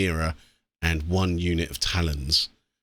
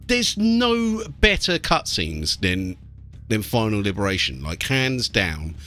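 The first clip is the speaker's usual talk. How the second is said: excited enthusing; 9 semitones higher than usual. Real, not acted. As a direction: rave about the cutscenes you love. Enthusing about cutscenes.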